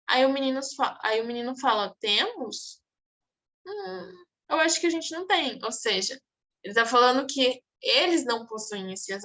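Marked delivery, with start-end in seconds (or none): 2.0-2.8 doubting one-word question, pitch jumping mid-word; ironic. Acted. Teacher repeats the boy's retort to students, ironic. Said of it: "Ele usou de uma, de uma ironia". 3.7-5.6 higher-pitched sceptical musing; ironic. Acted. Teacher paraphrases the boy's doubt for students, ironic. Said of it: "Ele usou de uma, de uma ironia".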